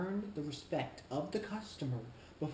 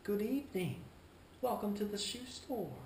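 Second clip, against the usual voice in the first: higher, self-assured shop welcome; confident greeting; 5 semitones higher than usual. Shown as a demonstration. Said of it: "With confidence".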